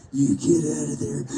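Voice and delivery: acted mad, held-in anger; an attempt at anger on cue; mad line read. Actor giving the director a mad take, controlled anger. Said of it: "do it again but you're mad".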